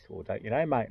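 mock matey English accent. English traveller answering a question, imitated English accent. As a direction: quote him in a put-on English accent. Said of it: "Heard it from an English guy".

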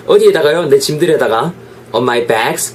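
ordinary talk

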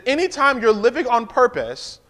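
very slow, each word weighted; slow emphatic repeat. Shown as a demonstration. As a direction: drag it out so it lands. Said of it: "I'm gonna say it again".

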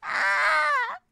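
slow, high, loud cry of delight; drawn-out squeal. Real, not acted. Streamer crying out over a cute drawing, slowly. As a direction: stretch it out, overwhelmed.

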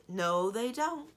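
loud, slow, firm contradiction; firm, drawn-out denial. A narrator's reading. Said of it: "Cimmerian said firmly".

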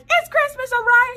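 loud mock yell. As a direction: yell him awake, half-joking. Mom insisting loudly.

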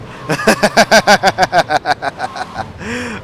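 long rapid cackling laugh; helpless run of chuckles at his own joke; sustained staccato giggling; long giggle. Real, not acted. Laughs at Klondike bar joke.

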